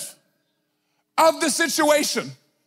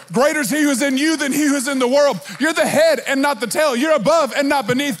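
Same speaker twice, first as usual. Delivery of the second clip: God, emphatic. Acted. God tells his children who they are, emphatic and building. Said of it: "And God's like".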